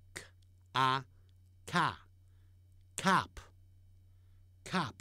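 cop stretched very slowly, rounded o; slow model of cop; drawn-out cop. Shown as a demonstration. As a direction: hold the o in cop long. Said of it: "这是俚语的说法".

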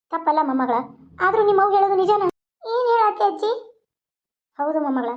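lightly voiced old grandmother, scolding fondly; a hint of an old village granny advising.

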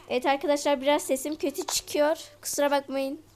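sick, stuffed-up voice; talking through a stuffy nose. Real, not acted. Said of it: "Hastayım da".

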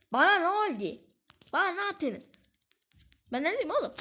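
high-pitched, incredulous questions; real bewildered outcry. Real, not acted. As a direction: protest in high-pitched disbelief at the game. Game character lost in a bug. (tiz sesle şaşkın isyan)

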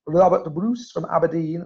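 a lightly attempted Scottish accent on Robert Bruce from Aberdeen; self-mocking half-hearted Scottish accent; bad Scottish accent. Shown as a demonstration. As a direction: try a Scottish accent and miss a bit. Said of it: "that was a terrible accent".

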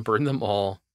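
sinister whisper. Pretend. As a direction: breathe it like a villain. Playful villainous follow-up, whispered.

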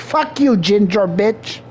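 high, mocking shout at the ginger; hammed-up jeer; mock trash-talk. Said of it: "You would have been like".

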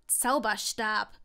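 slow, strained, pressed-out word; squeezed out. A narrator's reading. Draco squashed under Longbottom, squeezing out the word. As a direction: force the word out slowly. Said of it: "Das letzte Wort presste er hervor".

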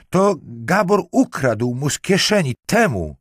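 high, loud, wailing accusation; distraught. A narrator's reading. Marquise names the thief beside the corpse, distraught. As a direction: cry out the accusation, pitch held high. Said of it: "zaczerpnęła powietrza".

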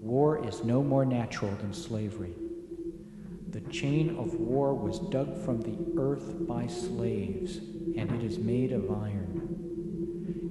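quiet authority. Acted. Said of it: "He spoke softly with quiet authority".

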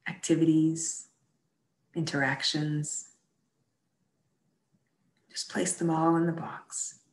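unhurried meditation guide with long pauses; guided meditation. Acted. Leader guides a Bible study group in prayerful imagery, guided meditation. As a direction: gently lead listeners inward, leaving space between phrases.

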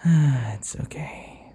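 soothing whisper. Acted. Soothing the turning hunter.

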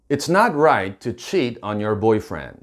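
slow, deliberate English; slow model sentence. Shown as a demonstration. Teacher modelling the girlfriend's line slowly. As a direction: spell it out for the learners. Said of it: "이렇게 얘기하면 되는데요".

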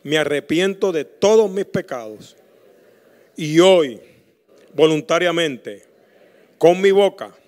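slow, measured prayer for the church to repeat; earnest congregational prayer; leading prayer. Acted. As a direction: pause so the people can repeat each phrase.

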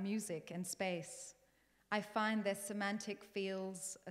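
heartfelt spoken-word poem, projected in measured phrases; poetry recitation. Acted. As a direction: recite your poem to your late father, pausing between images. Recites her second poem.

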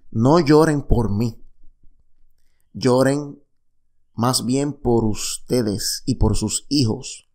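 slow, weighty reading of the words; preacher slowly voicing Jesus to the women; solemn slow quote. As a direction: draw out each word like a sacred saying.

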